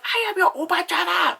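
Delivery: put-on loud, high-pitched caricature of an Asian accent; shrill-high mock Asian accent, shouted out. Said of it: "an Asian accent".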